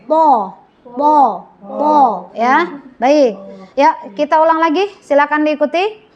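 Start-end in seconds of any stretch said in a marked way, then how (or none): 0.0-2.3 "Po" as a heavy Arabic tho, rounded O; "Po" drawn out with raised back of tongue; distinctive thick TO. Shown as a demonstration. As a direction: give "Po" its full, dark thickness. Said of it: "khas cirinya tuh khas".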